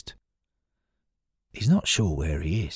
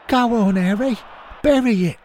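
high yelling cheer from the stands; shout; 4 dB louder than usual. A narrator's reading. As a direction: roar him on to score. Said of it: "Stan rises on his toes and shouts".

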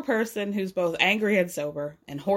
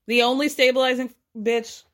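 sassy emphasis; 4 semitones higher, 4 dB louder than usual. Real, not acted. Sassy punchline.

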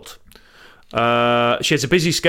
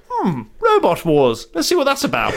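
curious Queen; 3 semitones higher than usual. Retold or imitated. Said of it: "who'd be like".

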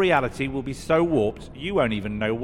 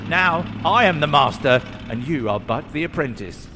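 booming arrogant alien overlord; 6 semitones higher than usual. Acted. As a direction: lord it over your brother, booming. Villain gloats to his brother.

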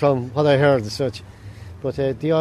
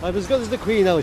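imitating mother; 5 semitones higher than usual. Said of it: "she says".

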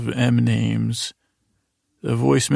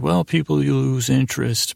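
passive aggressive. Retold or imitated. Walt to his family at breakfast, mildly passive aggressive. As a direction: imitate a passive-aggressive dad, understated. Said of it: "passive aggressive".

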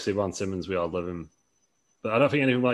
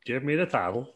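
creepy farmer impression, pitched up a little; Bob Holly; 4 semitones higher, 5 dB quieter than usual. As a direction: do a soft, raised creepy-farmer voice. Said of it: "that's Bob Holly. That's what he sounds like".

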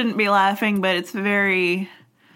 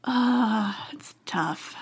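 hushed; 5 dB quieter, much slower than usual. Real, not acted. Somber reaction.

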